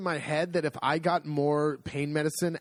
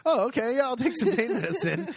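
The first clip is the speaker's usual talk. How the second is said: higher, laughing meek surrender; sheepish giving in; 10 semitones higher than usual. Retold or imitated. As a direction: cave in meekly through a laugh. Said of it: "And it was like".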